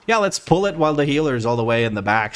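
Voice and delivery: fed-up, sarcastic outburst; sarcastic exasperation. Real, not acted. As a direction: complain with mock approval. Sarcasm at a bad tank pull.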